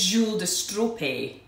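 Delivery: Strope attempted with a final "ay" sound; tentative pronunciation. Shown as a demonstration. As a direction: try Strope as French-style "stro-pay". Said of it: "I think it's".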